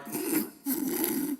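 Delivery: quiet knowing chuckle; under-the-breath chuckle. Acted. Jesus chuckling quietly while the mourners grieve. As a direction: chuckle to yourself like you know the secret. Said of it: "chuckle under his breath".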